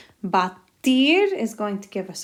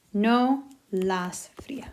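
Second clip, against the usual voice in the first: no las fría, whispered slowly; slower than usual. Shown as a demonstration. Teacher modelling the answer to students, whispered. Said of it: "modelling the answer".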